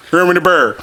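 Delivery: mock mumbled dad; dad's mangled speech. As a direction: imitate dad slurring into HERMAN THE BEAR. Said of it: "he couldn't say it".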